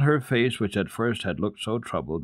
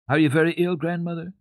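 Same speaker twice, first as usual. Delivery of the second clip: anxious question; 10 semitones higher, 4 dB louder than usual. A narrator's reading. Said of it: "asked anxiously".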